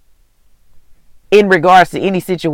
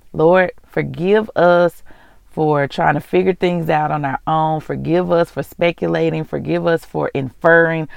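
quiet closing prayer, ending in a hushed amen; 4 dB quieter than usual. Acted. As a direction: pray sincerely on behalf of listeners. Leads a prayer of repentance.

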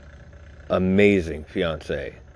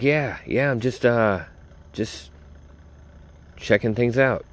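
casual brush-off; 5 semitones higher than usual. Retold or imitated. His own reply to buddy, retold.

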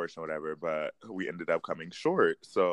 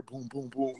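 mock sound effects; 5 semitones higher, 8 dB quieter than usual. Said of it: "Can we get, like, some sound effects".

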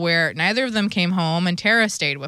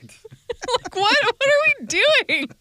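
exasperated disbelief; much slower than usual. Real, not acted. Mocking disbelief, laughing.

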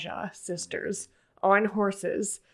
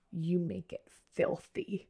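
quoted contempt; 6 dB quieter, slower than usual. Retold or imitated. Quoting a character's contemptuous accusation.

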